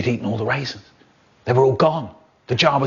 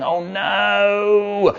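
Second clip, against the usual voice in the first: caught out; 7 semitones higher than usual. Acted. Caught laughing by dad.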